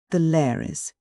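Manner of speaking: put-on Welsh accent. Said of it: "in an ever-strengthening Welsh accent".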